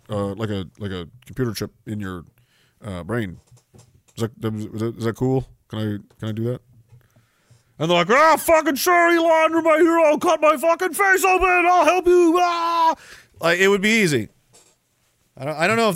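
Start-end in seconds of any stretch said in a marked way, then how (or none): 0.1-6.6 low, halting, soft request; hesitant Elon. Acted. Tech boss asking volunteers for brain chips, hesitant and low. 8.1-12.9 screaming in a very high voice; frenzied fan. Acted. Fans volunteering to their hero, hammed-up frenzied high scream.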